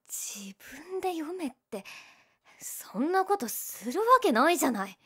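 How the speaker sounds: flustered whisper. Acted. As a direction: hiss a flustered protest.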